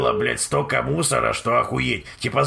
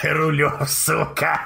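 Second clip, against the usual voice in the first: higher, cracking up while talking; laughing; 5 semitones higher, slower than usual. Real, not acted. Streamer reacts to a face in the overlay, laughing. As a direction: squeeze the words out through real laughter.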